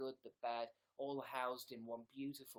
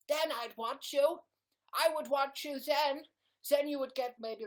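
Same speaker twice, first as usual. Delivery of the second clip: loud, high-pitched rant; mock ranting; 11 semitones higher, 11 dB louder than usual. Streamer ranting about getting views, loud and high. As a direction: shout it with exasperated emphasis. Ranting back at own bit.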